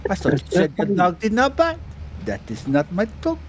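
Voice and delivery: replaying a punchline with a touch of indignation; mock Clouseau complaint. Retelling Pink Panther to friends, mildly indignant. Acting out film dog scene.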